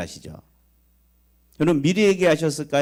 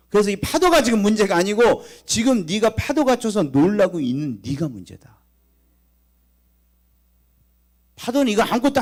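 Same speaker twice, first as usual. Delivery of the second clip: higher, louder preacher's cry; preaching at full force; 7 semitones higher, 5 dB louder than usual. Acted. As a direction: drive the rebuke home from the pulpit. Preaches Jesus' rebuke.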